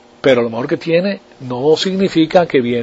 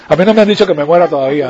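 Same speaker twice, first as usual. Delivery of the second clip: laughing; faster than usual. Real, not acted. Joking aside with laughter.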